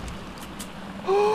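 high, sharp gasp; startled gasp. Real, not acted. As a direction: gasp in sudden fright. Bat attack in game.

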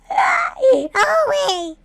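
high shriek of dismay; pained wail, far up the range; shrieking cry. Acted. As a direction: yelp high and loud in horror. Forced into the dress.

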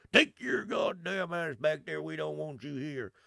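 a hint of an angry redneck neighbour; redneck local. Locals scolding the vlogger for voting Democrat, gruff. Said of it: "everybody's like".

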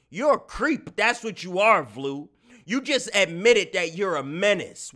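high, emphatic scolding; mock accusation. Streamer scolding a would-be menace with powers, mock outrage. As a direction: call out a villain in mock outrage.

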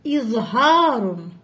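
slow إظهار with a glottal i at the start; hamza pronounced. Shown as a demonstration. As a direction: open إظهار on a clear glottal stop, drawn out. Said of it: "ضروري أن ننطق هذه الهمزة".

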